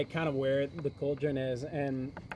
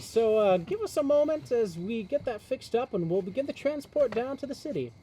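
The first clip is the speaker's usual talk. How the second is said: booming voice; 7 semitones higher than usual. Acted. Gnome addresses the crowd.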